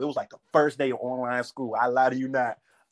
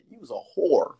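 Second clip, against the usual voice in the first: sassy insult delivery. Shown as a demonstration. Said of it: "you gotta say it just like that".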